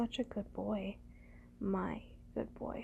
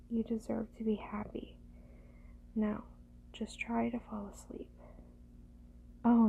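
usual speaking voice

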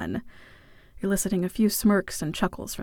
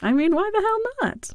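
high, quick cheeky aside; playful; 12 semitones higher, faster than usual. A narrator's reading. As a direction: toss it off with a grin. Playful aside, pitch jumps.

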